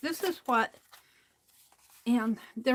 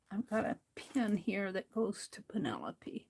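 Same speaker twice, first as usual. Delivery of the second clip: whisper; 6 dB quieter than usual. Real, not acted. Crafting aside to herself.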